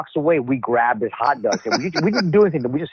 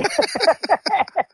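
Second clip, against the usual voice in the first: high cackle. Real, not acted. Laughing at the prank.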